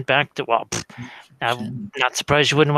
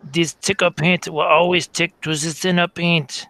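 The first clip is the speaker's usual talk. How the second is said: put-on light German accent; Bill Alexander; 4 semitones higher than usual. Recalling the German TV painter's catchphrase, German accent. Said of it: "remember the German guy, Bill Alexander?".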